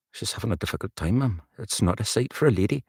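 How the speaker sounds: rehearsed Geordie accent; quick Geordie character line, tune rising; slatternly Newcastle woman. Shown as a demonstration. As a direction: try a Newcastle woman's lilt. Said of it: "slatternly Newcastle woman I've got in my notes".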